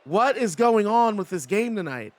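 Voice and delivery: fed up with the broken game; exasperated. Real, not acted. Game crashed again.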